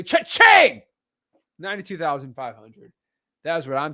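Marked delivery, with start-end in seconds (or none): 0.0-0.8 high, loud cha-ching sound effect; celebrating a big wholesale payout; cash register cheer. Acted. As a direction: sing out the register ding. Celebrating the money.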